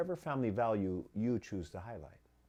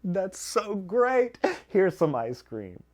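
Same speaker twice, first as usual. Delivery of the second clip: higher, louder, sarcastically cheerful; mock parent praise; 6 semitones higher, 9 dB louder than usual. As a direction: send up the indulgent parent. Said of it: "is like saying".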